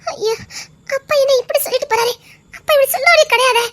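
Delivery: crying, hurt and bewildered; tearful disbelief. Acted. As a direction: let the tears come through the words. Daughter upset after father's rebuke.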